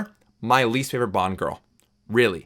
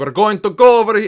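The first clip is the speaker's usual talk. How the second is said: loud, very high, over-the-top fake Russian accent; 10 semitones higher, 6 dB louder than usual. Reviewing a movie villain, imitating Orlov: bad crazy Russian accent. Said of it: "Sorry for the bad accent".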